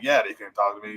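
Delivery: low Cajun coach impression. Coach recounting being let go, low imitated voice. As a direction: drop the pitch into a coach's voice. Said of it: "he talks like that".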